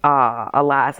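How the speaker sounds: lilting, theatrical "alas"; mock-tragic storybook lilt; sing-song. A narrator's reading. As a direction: intone it in a mild sing-song. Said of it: "I say in a sing-song voice".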